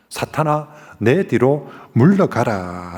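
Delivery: slow, commanding rebuke; a measured, stern command. Retold or imitated. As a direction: drive Satan back, slow and stern. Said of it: "더 세게 뭐라 합니다".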